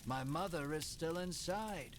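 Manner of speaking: understated frightened cry; mild shriek. Acted. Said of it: "Ridis shrieks".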